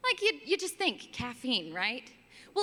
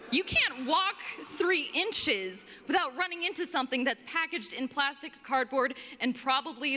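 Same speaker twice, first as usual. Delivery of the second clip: inner exasperation; 3 semitones higher than usual. Retold or imitated. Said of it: "in my head I'm thinking".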